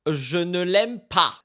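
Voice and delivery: slow quote. Retold or imitated. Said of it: "je cite".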